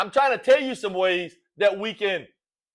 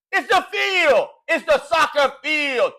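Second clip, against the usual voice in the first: raised-pitch, indignant correction; exasperated correction; 4 semitones higher than usual. Acted. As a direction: cut in on the commentator, exasperated. Mock argument with soccer commentator.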